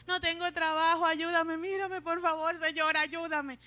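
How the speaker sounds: loud, high mock begging; imitated whiny prayer for help; self-pitying plea. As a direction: plead on and on, hamming up the pity. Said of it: "ora con lástima".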